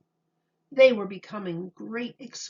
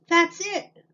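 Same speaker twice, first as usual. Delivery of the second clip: sudden bright idea, louder and higher; eager shout, pitch jumping up; excited cry; 9 semitones higher, 6 dB louder than usual. A narrator's reading. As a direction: burst out with the answer. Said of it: "cried Franklin".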